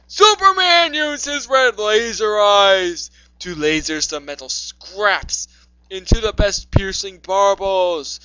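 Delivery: dramatic story reading. Acted. Reader restarts the Superman story, dramatic read-aloud voice. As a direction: launch the tale with mock-epic force.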